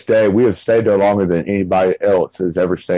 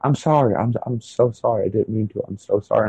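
wife sobbing apology; 4 dB quieter than usual. Retold or imitated. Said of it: "It was, like, higher pitched".

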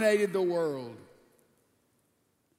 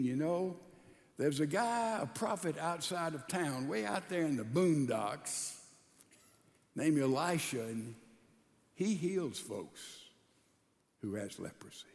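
hushed telling; 5 semitones lower, 7 dB quieter than usual. Acted. Servant tells king of prophet.

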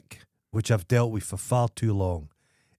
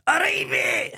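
high calling stranger; slower than usual. Retold or imitated. Squeaky Shoes hailing him across the street, high squeaky call.

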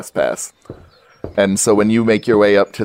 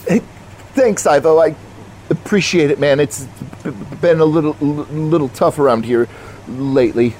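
Jason's voice; 7 semitones higher than usual. Acted.

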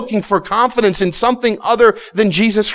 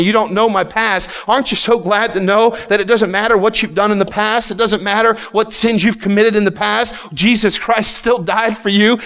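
higher, driving sermon cadence; forceful preaching; 3 semitones higher than usual. Real, not acted. Preacher tells congregation their past doesn't matter, forceful preaching. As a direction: build it in insistent, repeated phrases.

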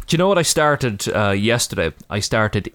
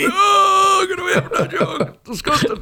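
scolding parent; slower than usual. Retold or imitated. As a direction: yell at the kid to get away from the bin. Parent dragging toddler from bins.

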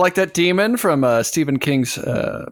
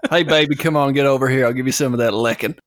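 lower-pitched, hammed-up English come-on; joke English accent; 4 semitones lower than usual. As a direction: put on a mock English accent. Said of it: "That's my English accent".

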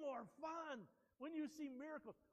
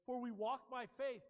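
"faith" punched loud; stress on faith; 8 dB louder than usual. Shown as a demonstration. Pastor quoting the verse, punching "faith". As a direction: lean hard into the word "faith". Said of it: "it says".

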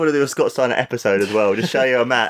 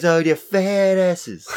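imitating Scott Steiner; 7 semitones higher, much slower than usual.

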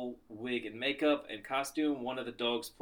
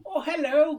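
high silly bird voice; 13 semitones higher, 8 dB louder than usual. Retold or imitated. Voicing the bird as Eric Idle.

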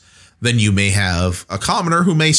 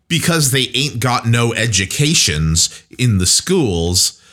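slow, light uneducated Southern accent; slowed folksy Southern talk, lightly done; slipping into Southern accent; slower than usual. Shown as a demonstration. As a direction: let a hint of down-south accent slip in. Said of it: "I'm slipping into an accent".

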